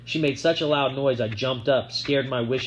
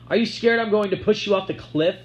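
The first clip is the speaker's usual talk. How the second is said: menacing taunt; 9 semitones higher, 4 dB louder than usual. A narrator's reading.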